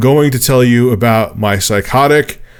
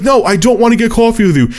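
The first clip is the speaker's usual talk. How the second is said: exasperated refusal; 11 semitones higher than usual. Retold or imitated. Acted refusal to pestering caller.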